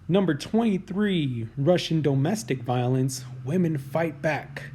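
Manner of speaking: slow, deliberate countdown announcer read; drawn-out headline announcement. Acted. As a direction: announce the entry like a list show host. Reads list headline.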